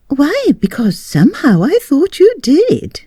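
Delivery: a wife half-laughing at her mistake; lifted, bewildered lady's voice; wife's voice. A narrator's reading. Wife explains.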